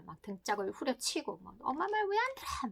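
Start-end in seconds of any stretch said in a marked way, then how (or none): 1.6-2.7 irritated mother yelling. Retold or imitated. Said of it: "짜증이 나서 아기를 막 때렸어요".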